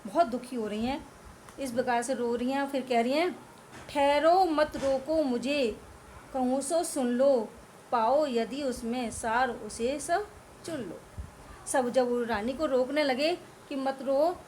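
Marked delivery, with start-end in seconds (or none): 3.9-11.0 slow, drawn-out verse reading; poem recitation. Acted. Teacher reciting Kaikeyi's plea to the court, slow verse. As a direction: recite each word with weight.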